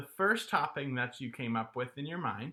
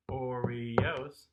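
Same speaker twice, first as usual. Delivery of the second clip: "Oreos" in three distinct beats; syllable by syllable. Shown as a demonstration. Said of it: "that has three syllables".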